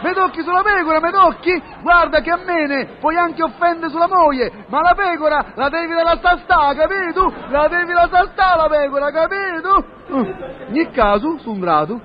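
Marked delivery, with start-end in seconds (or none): 0.0-9.8 indignant. Acted. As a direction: protest as if insulted over your sheep. Acted quarrel with the receptionist.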